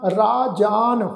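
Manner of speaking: both syllables of ਰਾਜਾਨ long. Shown as a demonstration. Teacher spelling it out, ਰਾਜਾਨ said "raa-jaan". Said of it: "ਰਾਰੇ ਨੂੰ ਕੰਨਾ".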